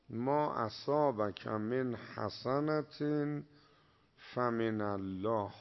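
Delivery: slow, measured Arabic recitation; Quran recitation. Acted. Preacher quoting the Quran to his listeners, slow recitation. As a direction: intone the verse slowly like a reciter. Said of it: "این هم حرفای جالبش تو قرآنه".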